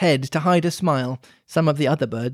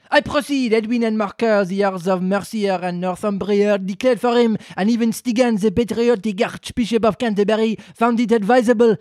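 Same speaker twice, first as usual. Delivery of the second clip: lecturing mouse, higher and louder; pompous mouse reading; 5 semitones higher, 4 dB louder than usual. Acted. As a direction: recite it like a dry history lesson. Mouse reads dry history.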